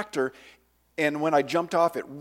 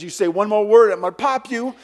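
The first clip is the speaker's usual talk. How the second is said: loud, higher warning; threatening uncle; 6 semitones higher, 10 dB louder than usual. Retold or imitated. Uncle threatening the angry van driver, loud. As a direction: warn him off, hard. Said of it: "he says".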